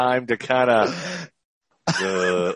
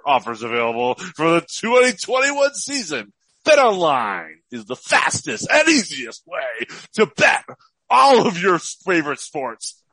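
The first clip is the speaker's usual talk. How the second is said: morning zoo radio voice; 5 semitones higher than usual. Acted. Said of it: "I'm gonna do this morning zoo, morning zoo radio here".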